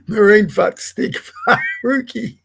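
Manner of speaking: giggles break through the nickname; can't keep a straight face reading it out; laughing. Real, not acted. Reading a rude nickname aloud, laughing.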